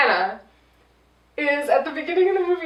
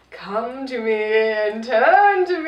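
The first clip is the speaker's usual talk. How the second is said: slow, hammed-up mystic magician call; Criss Angel magician; slower than usual. Hero turning magician to call his girlfriend, slow and mystic. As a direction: intone it like a stage illusionist. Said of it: "like, Criss Angel".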